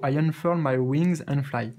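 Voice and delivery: surer French-accented reread of I unfurl my wings and fly, still slow; French-accented English. Shown as a demonstration. Second read of the card to viewers, steadier French-accented English. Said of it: "je connais même pas ce mot".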